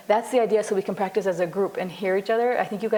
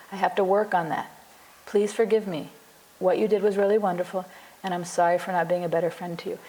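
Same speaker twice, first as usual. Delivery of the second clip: plain, honest confession of fault; sincere apology. Shown as a demonstration. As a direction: own your part simply and gently. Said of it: "Do you see how that feels so honest".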